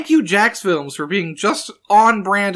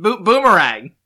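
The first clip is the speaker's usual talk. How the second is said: mock Australian. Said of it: "that's pretty good".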